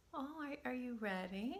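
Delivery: put-on gentle coaxing to a calmed child; soft calming voice. Shown as a demonstration. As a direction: invite them back softly. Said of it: "I use a really soft, calming voice".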